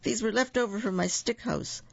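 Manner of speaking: very high, urgent little pig voice; oinking. A narrator's reading. Second little pig hands Goldilocks sticks, oinking. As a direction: pipe it up high as a hurried pig. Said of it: "oinked the second little pig".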